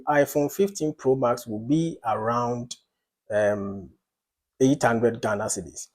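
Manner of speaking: hedged guess with a hesitant um; tentative opinion. Shown as a demonstration. Lecturer demonstrating a mere opinion, tentative. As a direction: offer the price as a loose estimate. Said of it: "I just expressed an opinion".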